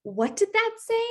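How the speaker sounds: high, put-on monster voice asking; lightly panicked Grover. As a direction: squeak it out as a worried puppet. Reading Grover's lines aloud.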